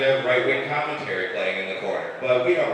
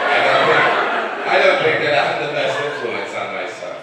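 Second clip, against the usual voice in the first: louder, half-laughing admission; laughing confession; 4 semitones higher, 7 dB louder than usual. Real, not acted. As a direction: laugh through the self-mocking truth. Laughing at his own confession.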